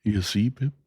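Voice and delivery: kindly, ponderous working man reasoning it out; Joe the blacksmith. Acted. Joe voiced in story.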